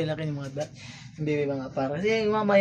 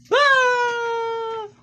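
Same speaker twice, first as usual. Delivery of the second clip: excited wow; 4 dB louder than usual. Real, not acted. Cheering baby.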